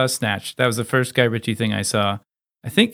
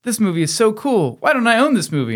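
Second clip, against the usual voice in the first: he was like; 11 semitones higher, 3 dB louder than usual. Retold or imitated. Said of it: "he was like".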